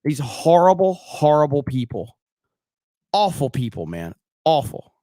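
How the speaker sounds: loud, disgusted rant; disgusted outburst. Real, not acted. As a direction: spit it out in disgust at them. Streamer fuming at clip people.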